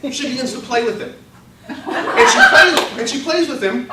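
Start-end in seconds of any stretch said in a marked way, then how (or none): 1.7-3.9 slow, high, louder, laughing on plays; laughing, drawn out. Real, not acted. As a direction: stretch it out while cracking up. Comic buildup of the bath story.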